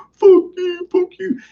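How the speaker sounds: high-pitched mock drunk voice; drunk brother. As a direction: imitate a drunk brother cursing, voice way up. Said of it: "he's drunk as usual".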